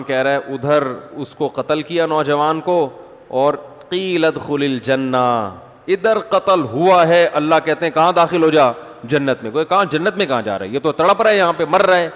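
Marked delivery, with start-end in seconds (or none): 3.9-5.5 verse recitation. Acted. 5.9-12.1 scoffing, incredulous mockery, rising louder; mock the idea as an unbeliever would; mocking atheist. Preacher voicing atheists mocking the Quran, scoffing louder. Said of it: "atheist لوگ ... مذاق اڑاتے ہیں".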